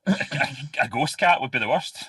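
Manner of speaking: stammering through laughter, high and loud; laughing. Real, not acted. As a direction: blurt it out while cracking up. Laughing along at the joke.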